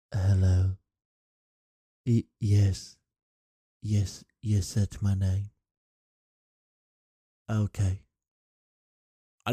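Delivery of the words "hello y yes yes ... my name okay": halting answers with long silences; awkward, hesitant. Acted. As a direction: act out a stiff, stuck streamer. Imagined awkward silent first live stream.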